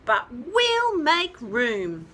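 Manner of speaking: peeping chick. Acted. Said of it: "peeped the smallest chicken".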